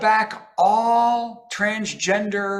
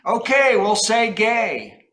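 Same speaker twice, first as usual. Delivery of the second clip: raised voice, drawn-out surrender to the heavens; residents giving in; 3 semitones higher, slower than usual. Acted. Florida residents pleading after the hurricane, mock giving in. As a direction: cry out a slow, mock concession. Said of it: "with many residents saying".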